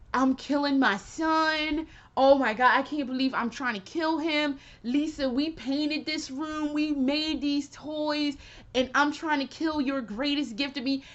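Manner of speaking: half-acted grief of a father who regrets; lightly voiced weeping Dracula; retold crying Dracula. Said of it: "He was crying".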